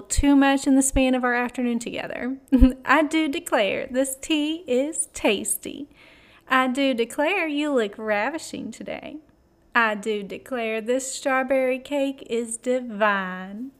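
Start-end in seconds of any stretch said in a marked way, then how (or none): 2.8-13.7 put-on playful Deep South accent. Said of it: "my most beloved Deep South spilling out of your mouth like molasses accent".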